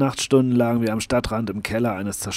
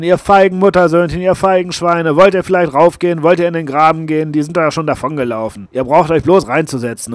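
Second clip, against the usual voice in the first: higher and much louder, a raging tirade; wütendes Geschrei; furious screaming; 5 semitones higher, 10 dB louder than usual. Acted. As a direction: scream abuse at the cowards, easing off at the end. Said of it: "eine Stimme schreien".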